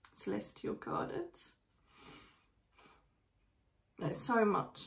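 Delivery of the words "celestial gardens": awed hush. Real, not acted. Awed vision of heaven.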